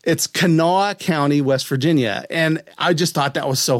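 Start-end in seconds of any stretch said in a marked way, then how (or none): 0.0-1.4 Kanawha said kuh-NAW, stress on the second syllable; local pronunciation. Shown as a demonstration. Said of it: "you know it's pronounced Kanawha".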